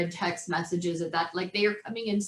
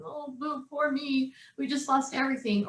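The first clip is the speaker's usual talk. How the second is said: mock self-pity; 4 semitones higher than usual. Mother showing the doom-and-gloom option, mock sad. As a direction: put on a little poor-me whine. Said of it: "make this all doom and gloom".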